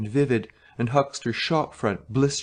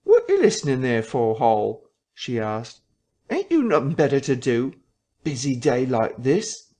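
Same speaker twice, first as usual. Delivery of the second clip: scolding wife. Acted. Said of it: "wifely opposition".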